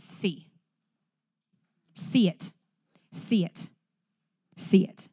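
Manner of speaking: soft, hushed repetition to let it sink in; hushed urging. Real, not acted. Preacher urging the congregation to see it, hushed. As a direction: drop to a near hush and press it home gently. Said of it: "The Lord has made us new".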